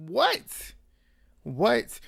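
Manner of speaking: high-pitched, disbelieving what; stunned questioning yelp; incredulous. Real, not acted. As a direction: blurt it out high, rising in disbelief. Reacting in disbelief to the episode.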